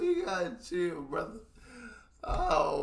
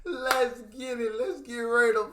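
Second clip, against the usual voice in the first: slow, drawn-out ring announcer call; boxing announcer; 2 semitones higher, 4 dB louder than usual. Pretend.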